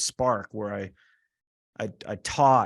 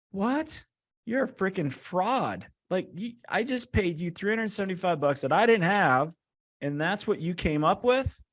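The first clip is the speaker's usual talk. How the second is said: much higher, incredulous outburst; indignant disbelief; 8 semitones higher than usual. Retold or imitated. Client calling the coach a fraud, incredulous and indignant. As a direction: let the outrage squeak up in disbelief. Outraged retort to paid coach.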